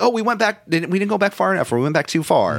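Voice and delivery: high-pitched mock alarm, easing down; mock dismay. Time travellers realizing they overshot, in high mock dismay. Voices wrestlers reacting to time machine.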